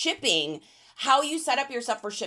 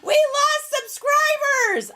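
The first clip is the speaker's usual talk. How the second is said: hammed-up, drawn-out despair, much higher and slow; mock wail; 7 dB louder, much slower than usual. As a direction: wail it like a fake tragedy. Mock lament over lost subscribers.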